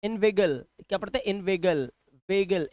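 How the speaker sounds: इनवेगल said "in-vay-gal"; ay sound. Shown as a demonstration. Teacher drilling इनवेगल for learners, ay sound. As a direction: lean on the "vay" in इनवेगल and वेगल. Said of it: "ए की आवाज".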